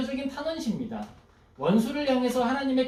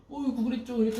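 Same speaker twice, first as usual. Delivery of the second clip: softer, tender comforting; soft consoling; 3 dB quieter, faster than usual. Retold or imitated. God comforting a praying believer, soft and tender. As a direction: gently soothe a complaining child. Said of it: "안아주시는 거예요".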